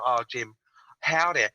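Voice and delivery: lightly put-on American accent. British caller mocks Jim the host, lightly put-on American accent. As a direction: do a joking, rough imitation of an American. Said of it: "See, that's my American accent".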